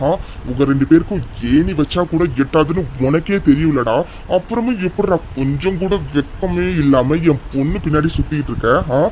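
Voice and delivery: low, scornful scolding; angry berating. Acted. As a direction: put the driver in his place, threateningly. Father berates driver over his daughter.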